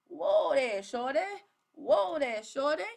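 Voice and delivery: playful high shout of protest; mock halting. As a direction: holler it playfully, as if reining someone in. Mock halting the pushy recruit.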